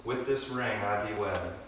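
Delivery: reading vows. Shown as a demonstration. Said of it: "please repeat after me".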